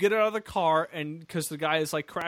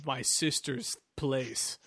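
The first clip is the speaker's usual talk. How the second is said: mock brooding hero; 5 semitones lower than usual. Player voices the hero heading to his sister's, mock brooding. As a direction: drag it out low, lightly hammed.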